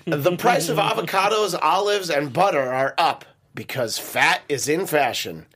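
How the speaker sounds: comic news anchor delivery; mock newscast read. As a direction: read it out like a headline with a punchline. Reads joke news headlines.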